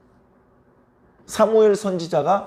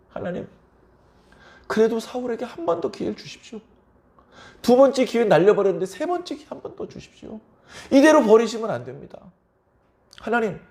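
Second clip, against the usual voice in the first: higher, pleading prayer voice; a prophet pleading through the night, pitched higher; crying-out prayer; 5 semitones higher than usual. Retold or imitated. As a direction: beg God for one more chance. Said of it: "부르짖듯 기도합니다".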